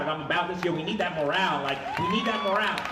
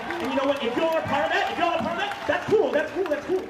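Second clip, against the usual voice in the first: sarcastic; 12 semitones higher, 4 dB louder than usual. Real, not acted. Sarcastic high pitch.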